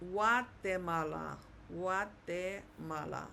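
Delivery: Guatemala as wah-teh-MAH-lah, g softened to w; Spanish pronunciation. Shown as a demonstration. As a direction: say Guatemala starting like a w, pure vowels. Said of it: "but in Spanish".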